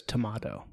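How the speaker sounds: "tomato" with a broad AH in the middle; tomato as to-MAH-to. Retold or imitated. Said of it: "my girlfriend's mom literally says tomato".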